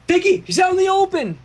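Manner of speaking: high call across the field. Acted. Armor calling to Pinky in battle. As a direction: call out to a friend. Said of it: "Armor called".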